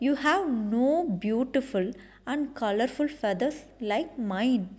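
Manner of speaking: a touch of a sneer, slightly quick; lightly mock the crane. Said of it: "She said with a sneer".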